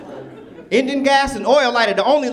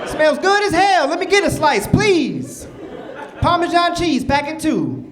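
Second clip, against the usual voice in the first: higher, excited, hungry begging; eager pizza craving; 4 semitones higher than usual. Retold or imitated. Robber asking the pizza man for a slice, eager and higher. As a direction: get excited about the pizza, not the cash. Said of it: "I'm like".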